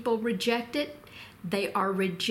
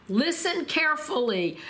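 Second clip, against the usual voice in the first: higher-pitched, emphatic address to a crowd; mild mock shout; 6 semitones higher than usual. Preacher voicing Peter addressing the crowd, mildly shouted. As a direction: call the crowd to attention, pitch lifted. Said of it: "he shouted to the crowd".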